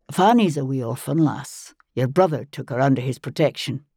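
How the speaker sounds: lightly voiced Scottish Highlander, matter-of-fact; a hint of a Scots husband explaining calmly; Jamie, Scottish man. Jamie's voice in narration.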